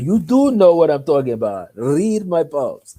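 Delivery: acted-out pushy challenge; imitated insistence. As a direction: drag out the final command. Woman insists, retold quarrel.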